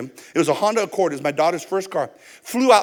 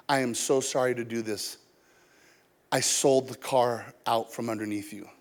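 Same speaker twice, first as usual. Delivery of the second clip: low, soft, regretful delivery; subdued apology; 8 semitones lower, 8 dB quieter than usual. Retold or imitated. Seller apologising to the buyer, soft subdued voice. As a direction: drop low and quiet to break bad news.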